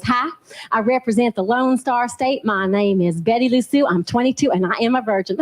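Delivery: lightly hammed-up Miss Texas introduction; Texas pageant contestant. Pageant contestant introducing herself to the judges, mock Texas beauty queen. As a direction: put on a mock Texan pageant-girl voice. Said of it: "Then they get to Miss Texas".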